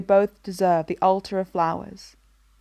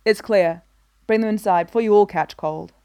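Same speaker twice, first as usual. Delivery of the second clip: louder call over the storm; 5 dB louder than usual. Acted. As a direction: call it out into the rain. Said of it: "calls out into the storm".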